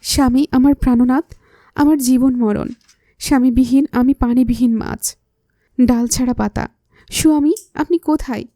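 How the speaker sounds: a teasing parody of a husband-worshipping wife; mock simpering devoted wife. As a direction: overplay the lovesick bride as a joke. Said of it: "ন্যাকা মেয়েদের মতো স্বামী ভক্ত হয়ে যাব".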